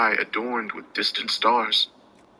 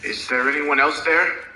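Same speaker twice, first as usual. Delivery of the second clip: higher, careful question into the dark; cautious; 6 semitones higher than usual. A narrator's reading. Narrator calls into the dark cell, cautious. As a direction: ask warily, afraid of the answer. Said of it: "I asked cautiously".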